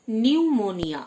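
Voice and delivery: "নিউমোনিয়া" starting straight on N; silent P. Shown as a demonstration. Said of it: "পি silent". ("নিউমোনিয়া", শুরুতে পি উচ্চারণ না করে)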